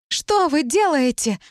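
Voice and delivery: high, slow, startled cry; shouting. Acted. Talit bursting into the dressing room, crying out. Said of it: "ворвалась Талит с криками".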